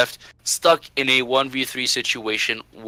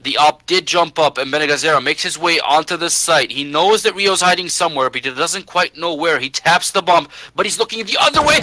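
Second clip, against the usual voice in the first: esports caster; 3 semitones higher than usual. Real, not acted. Caster building tension in clutch.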